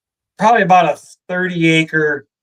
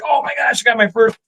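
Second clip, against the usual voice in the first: high, fast burst of joy; jubilation; 4 semitones higher, faster than usual. Retold or imitated. Teenage boy thrilled at his first deer, high and fast. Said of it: "I was just like".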